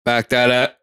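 hiccuping mid-phrase; words broken by hiccups. Real, not acted. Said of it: "I get the hiccups over here".

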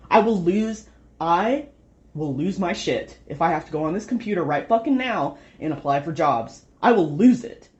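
near the end of her rope, voice rising. Real, not acted. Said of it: "he can hear me raising my voice".

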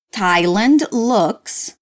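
very slow with a long pause before amazing; slow teacher model with a pause before amazing; slow model phrase. Shown as a demonstration. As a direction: stretch it out for learners to copy. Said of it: "Repeat after me".

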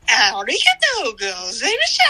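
cheerful shop clerk. Retold or imitated. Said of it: "なんかすんごい陽気な、あの、なんか男性店員の声で".

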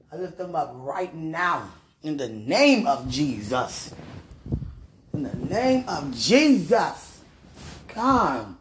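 slow, fervent prayer with big pitch swings; emphatic prayer. Real, not acted. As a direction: pray it slowly, leaning hard on key words. Praying aloud for others.

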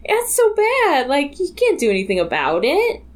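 high, upset pleading at the screen. Retold or imitated. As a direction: plead with them, appalled. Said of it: "I was like".

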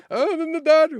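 high, loud panicked yell in a retold quote; shouted answer. Passenger calling back where his car is, shouted. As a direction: holler back over the noise, acting it out.

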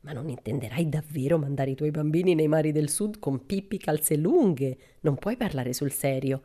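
lightly voiced gossiping lady; shocked town ladies. Town ladies questioning Mrs Settergren, prim disapproval. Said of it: "le signore ... per chiederle".

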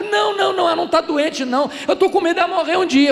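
high, loud hammed-up wailing; imitated crying. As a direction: act out a friend bawling in panic. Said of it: "chorando mesmo, convulsivamente". (choro exagerado, imitado em voz aguda)

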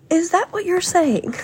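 high, loud mock-outraged challenge; indignant high imitation breaking into laughter. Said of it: "raising her voice".

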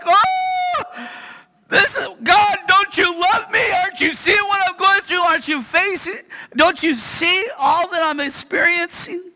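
mock anguished whine at God; pleading complaint to God. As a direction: beg God like he's forgotten you.

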